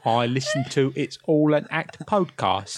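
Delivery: hammed-up bad English accent; American faking English accent. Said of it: "American doing an English accent".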